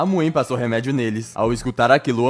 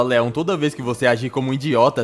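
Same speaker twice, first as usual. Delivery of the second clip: mild irritation. Acted. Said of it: "Ela irritada fala".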